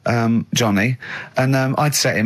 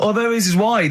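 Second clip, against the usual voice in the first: laughing; 5 semitones higher than usual. Real, not acted. Laughing about Robin's thumbs.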